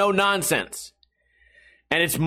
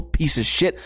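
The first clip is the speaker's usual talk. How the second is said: normal talking voice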